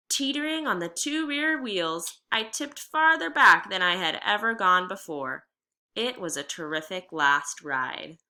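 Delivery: reading a chapter aloud to the class; steady, clear read-aloud voice; story narration. A narrator's reading. Reads chapter fourteen aloud.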